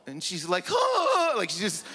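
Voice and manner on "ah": high shouted wail of a dramatic mom; mock wail. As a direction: cry out like a hammed-up mother. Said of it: "She cries like it's the Oscars".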